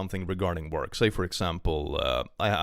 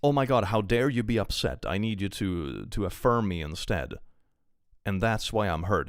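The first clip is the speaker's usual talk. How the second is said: mocking whine. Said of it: "the weird doubling down and being like".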